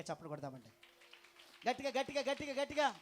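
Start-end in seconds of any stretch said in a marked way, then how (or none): 1.7-3.0 rousing call. Real, not acted. Urging congregation to clap louder.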